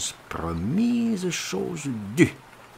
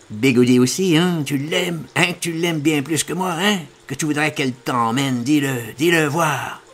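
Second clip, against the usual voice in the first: jealous demand; 4 semitones higher, 5 dB louder than usual. Acted. Jealous lover demands confession.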